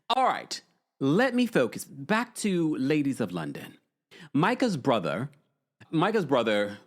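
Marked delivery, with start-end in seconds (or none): 0.1-3.8 steer things along as a pretend Brit; put-on English accent. Getting back to Ladies of London, in a mock English accent. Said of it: "speak like this for the rest of the live".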